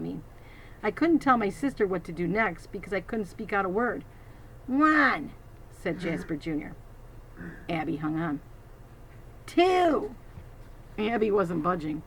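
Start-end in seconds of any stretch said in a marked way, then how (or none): 4.7-5.3 threatening count. Acted. 9.5-10.2 high, louder bark; threatening count. Acted.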